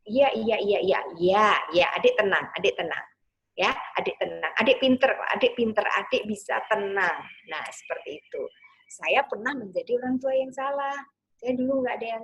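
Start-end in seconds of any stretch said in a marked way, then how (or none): 0.0-7.2 calm, repeated reassurance to the little one; gentle mother comforting her child; soothing mother. Shown as a demonstration. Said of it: "Pas masih nangis gitu".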